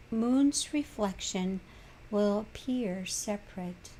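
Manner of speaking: measured reading of a wisdom passage, pausing between phrases; unhurried reading aloud with spaced phrases; spiritual reading. Acted. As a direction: read it out as a contemplative teaching.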